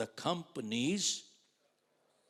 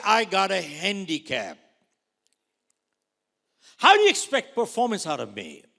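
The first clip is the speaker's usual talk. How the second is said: high, loud indignant plea; loud protest; 7 semitones higher, 16 dB louder than usual. Retold or imitated. Agent defending himself to manager, loud indignant plea. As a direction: protest as if wronged. Protesting his handicap loudly.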